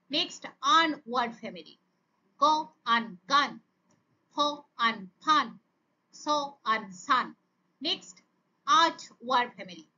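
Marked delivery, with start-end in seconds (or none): 2.4-7.3 onset, rime, whole word, as in স... আন... সান; phonics sound-out. Shown as a demonstration. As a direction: say ফ, pause, আন, pause, then blended ফান. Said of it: "একসাথে উচ্চারণ করে". (থেমে থেমে ফ, আন, তারপর একসাথে ফান)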